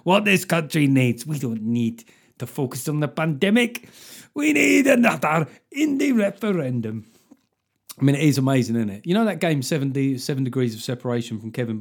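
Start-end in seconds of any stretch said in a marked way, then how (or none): 0.0-7.0 put-on lightly done Scottish accent, building to a rally cry; Nicola Sturgeon. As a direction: send up a Scottish nationalist leader, rising in fervour. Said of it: "if Nicola Sturgeon was talking about your name".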